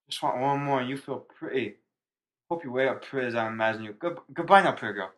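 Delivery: put-on slurred broken drunk English. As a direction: read it like a sloppy drunk. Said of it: "In, in drunk voice".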